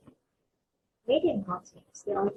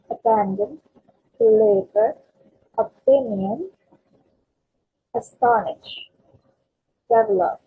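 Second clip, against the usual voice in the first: abandon, deliver, opinion, astonish, develop, each punched in the middle; second-syllable stress; 5 semitones lower, 6 dB louder than usual. Shown as a demonstration. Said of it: "we're stressing on the second syllable".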